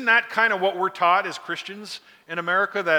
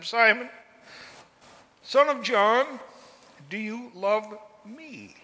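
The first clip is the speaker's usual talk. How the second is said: higher, slowing on do you love me; gentle pleading question; 4 semitones higher, slower than usual. Retold or imitated. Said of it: "See how he said it different".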